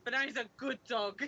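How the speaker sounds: badly faked English accent; loose, half-working English accent. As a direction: have a go at a Cockney English accent. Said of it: "It's a bad English accent".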